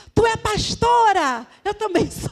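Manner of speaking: put-on grandmother voice, high, drawn-out shouting. Retelling how a child's grandmother shouted at her: imitating a grandmother shouting. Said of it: "a avó da criança gritando pra mim".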